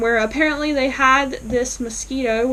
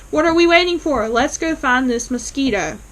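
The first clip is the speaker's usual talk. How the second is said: put-on excited kids; 3 semitones higher, 4 dB louder than usual. Kids excitedly cut her off.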